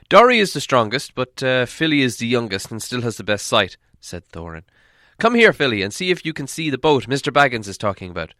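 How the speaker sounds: loud commanding dwarf voice; dwarf leader giving orders. Acted. Dwarf leader choosing the best thrower, loud and commanding. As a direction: call the young dwarf over, firmly.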